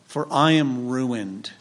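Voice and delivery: slow, understated cry of woe; measured, mock-anguished quotation of a prophet; mild retold lament. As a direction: draw out the prophet's lament without raising the voice. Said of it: "Isaiah cries out".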